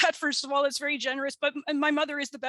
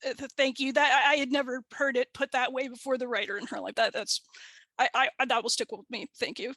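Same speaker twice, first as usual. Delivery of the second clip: choked up. Real, not acted. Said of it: "I'm getting a little emotional".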